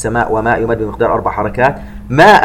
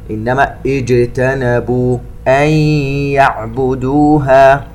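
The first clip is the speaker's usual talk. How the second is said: slow chanted tajweed recitation; Quran recitation; much slower than usual. Acted. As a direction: draw out each vowel, chant it. (تلاوة مرتلة بطيئة)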